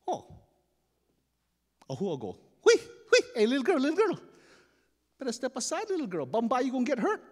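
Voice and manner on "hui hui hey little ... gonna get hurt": high, loud hailing calls easing into a warning; cocky chief calling out. Acted. Chief warning a little girl off the sled course, calling out. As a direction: call out to shoo someone off the course.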